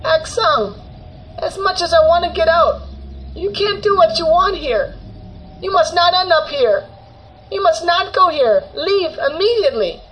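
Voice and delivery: high, loud, desperate warning; crying shout. A narrator's reading. Grandmother warning grandchild to leave hell, tearful shouting. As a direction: shout a frantic warning, pitch way up. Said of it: "My grandmother cried and shouted".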